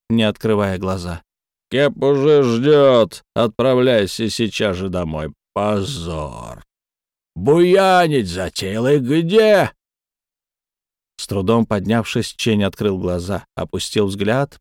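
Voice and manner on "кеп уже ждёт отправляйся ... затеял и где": stern scolding. Acted. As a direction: scold him for his disgrace. Akubara scolds drunk Chen.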